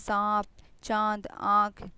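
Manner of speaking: सांप, चांद, आँख slowly, air through nose and mouth; nasalised vowels. Shown as a demonstration. Teacher demonstrating chandrabindu to students, nasalised vowels. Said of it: "नाक से भी निकलेगा और मुंह से भी निकलेगा".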